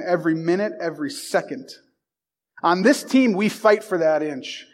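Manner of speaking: steady, building locker-room speech; rousing coach pep talk. Acted. Coach to his players before the big game, rousing pep talk. Reads Any Given Sunday speech.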